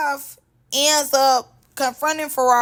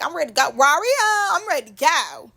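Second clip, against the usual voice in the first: Ferrari; 4 semitones higher than usual. Retold or imitated. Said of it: "she ready to go. She like".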